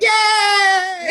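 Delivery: high, loud mock cheer. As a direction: cheer like a gleeful student. Students cheering at collapse.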